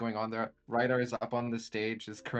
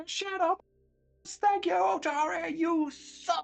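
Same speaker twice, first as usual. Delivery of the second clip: shrill, deliberate, very high, drawn-out yell; 4 dB louder than usual. Telling a scene where the music stops, Ryda yelling into the silent room. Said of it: "she just yells into the half empty room".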